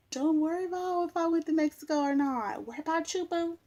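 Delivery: high sassy clapback, laughing at first. Acted. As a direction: brush them off with attitude. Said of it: "sassy retort to haters".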